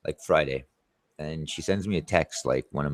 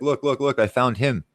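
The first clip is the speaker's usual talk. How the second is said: higher, giddy mock "look, look, look"; mocking excited woman; 6 semitones higher than usual. Mimicking women online who found a new guy, mock giddy. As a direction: ham up her excitement at finding a guy.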